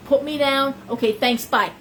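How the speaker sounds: abrupt. Retold or imitated. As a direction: quote him cutting the call short. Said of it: "I'm very abrupt".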